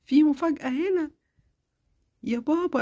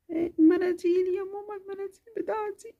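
put-on sick little girl; 3 semitones higher than usual. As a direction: feverish child complaining to mama. Child explains to mother.

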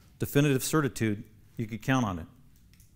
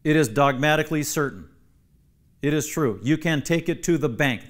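emphatic, firm assertion; absolute confidence; 3 semitones higher, 4 dB louder than usual. Shown as a demonstration. Preacher explaining what amen means, absolute confidence. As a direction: state it as beyond any doubt. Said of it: "means with absolute confidence".

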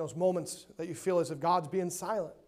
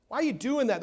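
higher mock challenge; questioning world; 4 semitones higher, 3 dB louder than usual. The world challenging a believer, mock questioning. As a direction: imitate a scornful questioner. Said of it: "The world looks at you and say".

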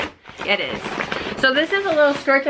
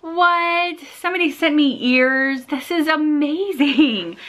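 high, delighted disbelief, slowing at the end; thrilled astonishment at an unexpected gift; excited surprise; 5 semitones higher than usual. Retold or imitated. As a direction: gasp it out like you can't believe your luck. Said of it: "I'm like".

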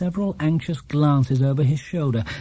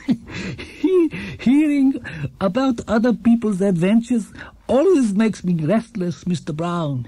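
put-on higher, gentle old man's voice; kindly old shopkeeper; 6 semitones higher, slower than usual. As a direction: play a cheerful elderly shopkeeper. Gruber voiced in story.

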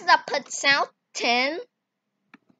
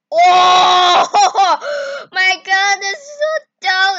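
excited; 5 semitones higher, 10 dB louder, slower than usual. Real, not acted. Sees the fat clay result.

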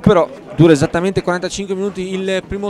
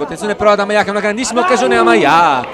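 excited commentary; 4 semitones higher, 4 dB louder, faster than usual. Real, not acted. Commentator calls a big chance.

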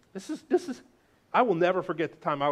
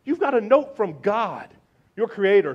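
emphatic proclaim; 4 semitones higher, 6 dB louder than usual. Acted. Preacher emphasis, loud.

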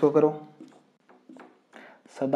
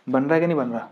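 teacher re-asks the class more loudly; louder repeat; 5 dB louder, faster than usual. Shown as a demonstration. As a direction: repeat the question louder, pressing for an answer. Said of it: "teacher repeats question, pressing class".

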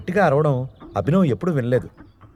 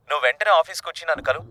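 fast, higher commanding order; curt order; 5 semitones higher, much faster than usual. Acted. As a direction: rattle off a command. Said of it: "order వేసింది అనన్య". (వేగంగా ఆజ్ఞాపించే స్వరం)

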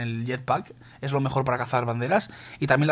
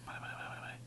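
barely voiced whispered repetition; susurro concentrado; 23 dB quieter, much faster than usual. Real, not acted. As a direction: whisper it rapidly under your breath. Murmura concentrado en la partida. (susurrando muy bajito, concentrado)

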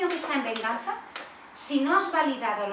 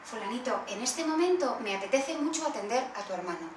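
soft, unhurried parent asking for help; calm parent request; 3 dB quieter than usual. Shown as a demonstration. Parent asks a calm child for help, softly and calmly. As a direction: gently ask the calm child to wait. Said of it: "le puedes hacer una petición".

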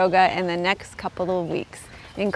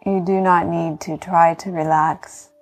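guided meditation. Acted. Yoga teacher talking listeners into healing rest, calm meditation voice.

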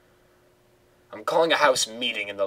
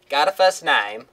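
higher, surprised woman's voice; Simone's voice; 4 semitones higher, 6 dB louder than usual. Acted. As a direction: put on a chirpy TV reporter. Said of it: "her voice is hard to do".

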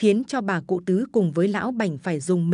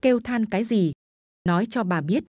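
growled. Acted. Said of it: "gằn giọng".

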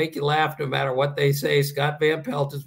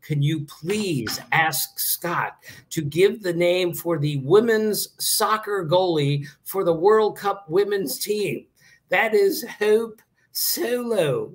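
eager stranger; 4 semitones higher, slower than usual. Retold or imitated. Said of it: "He just says".

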